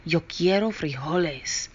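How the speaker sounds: lightly voiced solemn declaration; somber voice. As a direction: declare it gravely. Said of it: "in his most somber voice".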